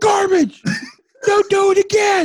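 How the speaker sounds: piercing, very high, very loud, drawn-out scream. Retelling being in bed when Julie screamed: imitating Julie screaming. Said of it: "Julie screamed".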